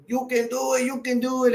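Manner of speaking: a lightly voiced cheering farmer; a playful nod to the Sandler movie cheer; Waterboy cheer. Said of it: "come out in each other's movies and going".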